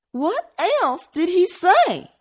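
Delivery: high, slow, pleading whimper; whimpering demand. A narrator's reading. Mistress pressing the maid for news, whimpering. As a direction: ask it like a frightened whimper. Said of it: "sounded more like a whimper".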